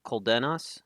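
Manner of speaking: "Coldenas" as cole-DEN-ahs; Coldenas, remembered pronunciation. Shown as a demonstration. Streamer repeating how the player says it, Coldenas with DEN. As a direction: say "Coldenas" with a short e, tentatively. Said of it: "heard you say it more like".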